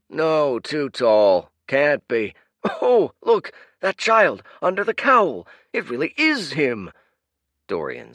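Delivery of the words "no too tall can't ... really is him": high, loud eager chatter; crowd arguing. Acted. Crowd member spotting the hero, high and loud. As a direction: spot him and point him out.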